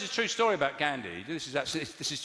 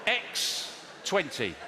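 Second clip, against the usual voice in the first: slow read; 3 semitones higher, much slower than usual. Acted. Slow deliberate reading.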